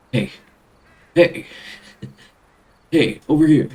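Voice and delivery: loud acted shout for attention; calling out. Game character calling out for attention.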